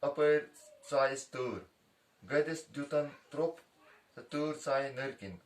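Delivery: measured recitation of a Kashmiri rhyme, each line lifted then dropped; slow verse recital for children; reciting a verse. Acted. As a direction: chant it line by line like a riddle.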